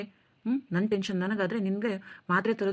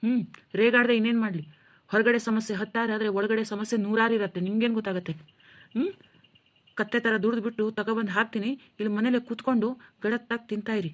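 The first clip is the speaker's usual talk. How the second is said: heated complaint, higher pitched; angry; 4 semitones higher than usual. Acted. Stressed husband vents to his wife about bills, heated and higher. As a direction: vent the pressure of every bill. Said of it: "ಈ ರೀತಿ ಕೋಪ ಮಾಡ್ಕೋತಾ ಇದ್ದೀರಾ".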